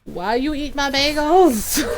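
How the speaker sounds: half-laughing mock grievance; laughing complaint. Mom laughing while asking daughter why, mock grievance. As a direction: whine the question through laughter. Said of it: "I'm just like".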